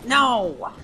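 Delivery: loud, high cry of protest; dismayed shout. Real, not acted. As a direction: cry out as the fight goes wrong. Setback during game fight.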